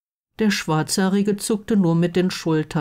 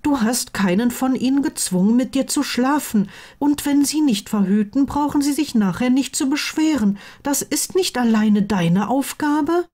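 higher-pitched voice for the reproving friend; indignant best friend; 8 semitones higher than usual. Acted. Friend insisting contraception is not one person's job, indignant. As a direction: argue the point in a high, insistent voice.

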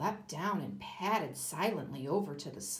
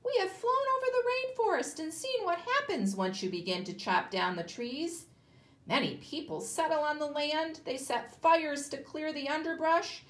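high, loud bird voice; a toucan warning the man; 9 semitones higher, 4 dB louder than usual. Acted. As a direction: keep it high and birdlike. Toucan voice continues.

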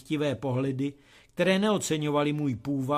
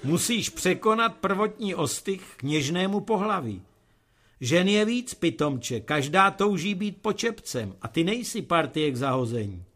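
higher, louder hearty fatherly voice; father's lecture; 4 semitones higher, 4 dB louder than usual. Acted. Father advising his son to marry, booming. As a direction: lecture him like a boisterous father.

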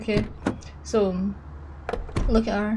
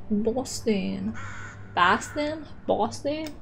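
mock Boston accent; much slower than usual. Player mocking the game's Boston ticket line, bad Boston accent. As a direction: try out a clumsy Boston accent. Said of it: "That was a terrible accent".

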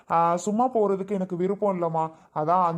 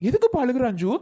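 higher, urgent plea to stop crying; agitated plea; 5 semitones higher than usual. Acted. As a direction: press them to stop the tears. (பதற்றமா அழுகையை நிறுத்தச் சொல்வது)

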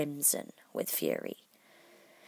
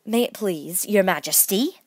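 slow, deferential plea; meek, careful deference; very humble; 3 semitones higher, 7 dB louder, slower than usual. A narrator's reading. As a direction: address royalty humbly, rising at the end. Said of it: "in a very humble tone".

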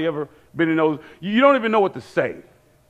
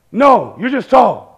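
slow, loud, higher starstruck reply; excited fan; 4 semitones higher, 5 dB louder, slower than usual. Retold or imitated. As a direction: imitate a dazzled fan, stretching the words. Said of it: "He was so excited".

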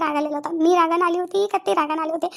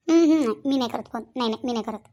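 stubborn refusal; 4 semitones lower than usual. Acted. Young wife refusing to phone her husband, stubborn. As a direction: dig in and refuse, voice dropping low. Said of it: "लय जिद्दल आहे बा तू".

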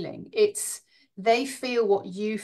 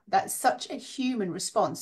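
normal talking voice

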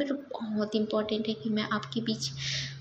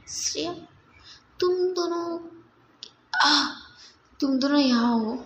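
scolding. Acted. Shreya's friend scolds the missing two, exasperated. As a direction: tell them off for vanishing from the party. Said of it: "क्यों डांट रही हो?".

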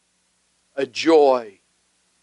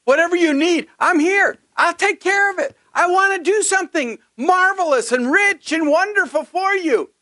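Holy Spirit's voice. Retold or imitated. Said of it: "the Holy Spirit ... is saying".

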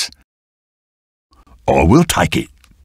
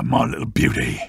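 tender cooing; 13 semitones lower, 6 dB quieter than usual. Acted. Sweet-talking a find.

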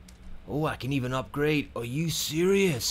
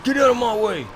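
shout; 10 semitones higher, 7 dB louder, much faster than usual. Real, not acted. Driving through enemies in game.

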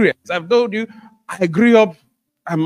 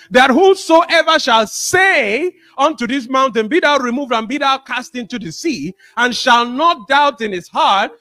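preaching scripture; 3 semitones higher than usual. Acted. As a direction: declaim it from the pulpit. Preacher reads Mark aloud.

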